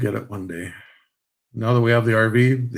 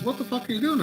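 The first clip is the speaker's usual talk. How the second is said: quoting buddy; 12 semitones higher, 4 dB quieter than usual. Retold or imitated. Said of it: "And he's".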